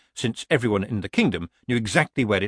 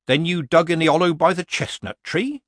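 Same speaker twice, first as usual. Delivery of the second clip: said mildly; 7 semitones higher, 4 dB louder than usual. A narrator's reading. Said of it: "she said mildly".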